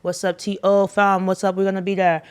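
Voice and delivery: put-on light Canadian accent shout-out; a mild Canadian accent. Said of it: "That was my Canadian accent".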